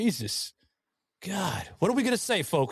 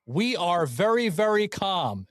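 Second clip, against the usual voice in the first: mock Trump; 3 semitones higher than usual. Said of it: "I'm gonna steal this from you".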